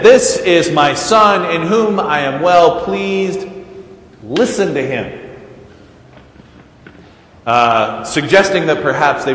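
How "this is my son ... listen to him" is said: booming voice from heaven. Retold or imitated. Voice from heaven declaring to the disciples, booming. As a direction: announce it like a voice from the sky. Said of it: "the booming voice said".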